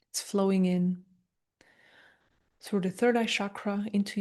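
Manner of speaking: calm, unhurried meditation guide with long pauses; guided meditation. Acted. Meditation teacher guiding listeners through an energy transmission, calm guided meditation. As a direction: gently talk them through it, leaving space between phrases.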